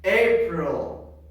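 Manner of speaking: loud, emphatic model word; projected classroom prompt; teacher's drill call. Shown as a demonstration. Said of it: "I am going to say".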